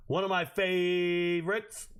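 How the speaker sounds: "favorites" stretched long on the first syllable; drawn-out word. Pretend. Streamer savoring a draft pick, "favorites" drawn out slowly. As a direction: hold "favorites" out slowly, playing with it. Same phrase repeated ever more stretched.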